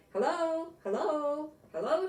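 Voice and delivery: high, loud chipmunk calling out hello; cheerful shout. A narrator's reading. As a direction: call out bright and high like a little chipmunk. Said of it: "shouted Jitterbug".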